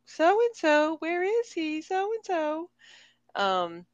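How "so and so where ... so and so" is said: high, far-off calling for someone; high imperious calling; calling out imperiously. Retold or imitated. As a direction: call for him like a demanding lady of the house. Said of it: "she's walking through".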